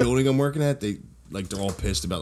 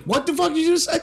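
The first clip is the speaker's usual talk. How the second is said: sudden very high shocked squeak with a laugh; retold stunned outburst; shocked disbelief.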